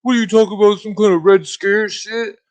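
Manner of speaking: mock them, pitch way up and push volume; mocking commies. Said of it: "they're like".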